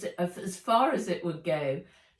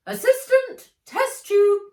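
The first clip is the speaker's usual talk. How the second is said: high, loud bossy shout; 14 dB louder than usual. A narrator's reading. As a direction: yell the order at your assistant. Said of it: "shouted Fred".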